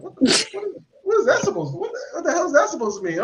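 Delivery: high-pitched, rapid, offended "what the hell"; mock-offended comeback, sped up; indignant outburst. Reacting to a backhanded compliment.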